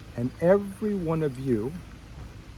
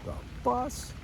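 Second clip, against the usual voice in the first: dismayed disbelief; 8 semitones higher, 10 dB quieter, slower than usual. Retold or imitated. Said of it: "And I'm like".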